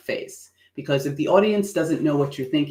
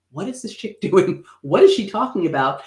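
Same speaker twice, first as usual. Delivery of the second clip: intrigued puzzlement; 4 semitones higher than usual. Shown as a demonstration. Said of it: "But not in like".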